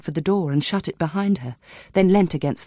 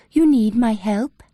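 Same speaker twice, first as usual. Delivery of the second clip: higher, hollow uncanny echo of the question; eerie echo; 5 semitones higher, 4 dB louder, slower than usual. A narrator's reading. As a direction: parrot it back, otherworldly. Possessed patient echoing questions.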